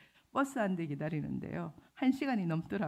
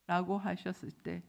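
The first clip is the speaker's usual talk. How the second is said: ordinary talk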